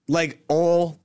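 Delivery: Southern "oil" as a single syllable; one-syllable oil. Shown as a demonstration. Explaining Florida's Southern accent, one-syllable oil. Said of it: "oil is one syllable".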